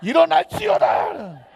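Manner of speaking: drawn-out, rising-force shout; 외치는 선포. Shown as a demonstration. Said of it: "여러분, 외쳐보세요". (길게 힘껏 외쳐 선포하듯)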